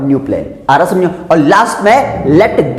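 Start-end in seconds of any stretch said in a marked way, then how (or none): 0.1-0.4 slow, careful example sentence; slow model reading. Shown as a demonstration. Teacher reads the example slowly. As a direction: read it out slowly. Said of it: "क्या बोलेंगे".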